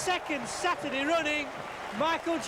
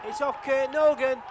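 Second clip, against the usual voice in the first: louder, punchy goal call; excited goal call; 5 dB louder than usual. Real, not acted. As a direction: belt out the scorer's name. Goal call, repeated later calmly.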